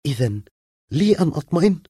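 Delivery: anxious rising question; a worried woman seeking reassurance; nervous. A narrator's reading. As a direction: ask it tense and unsure. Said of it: "قالت له في توتر".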